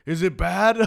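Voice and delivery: high, loud, giggling quote; retelling his question while laughing. Retold or imitated. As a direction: laugh through the injured man's worry. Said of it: "he's telling me".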